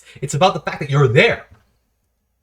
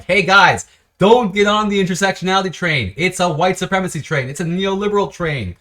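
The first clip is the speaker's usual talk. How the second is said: calling out warning; 5 semitones higher than usual. Retold or imitated. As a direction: shout the warning to the group. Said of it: "I'm like".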